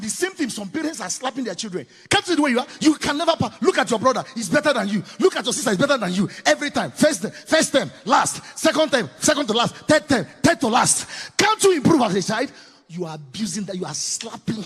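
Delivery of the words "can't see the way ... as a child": scolding parent. Acted. Parent scolding child, acted.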